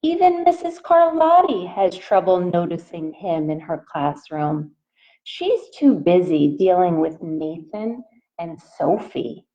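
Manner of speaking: gentle picture-book read-aloud voice; reading to children. A narrator's reading. Teacher reading a picture book to her class, in a gentle read-aloud voice. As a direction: read it out to the little ones, asking.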